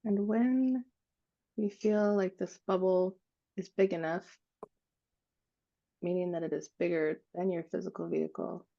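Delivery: calm, unhurried meditation guide with long pauses; guided meditation. Acted. Guiding a group to breathe into an expanding bubble, calm meditative voice. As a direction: lead them gently through each breath, leaving space.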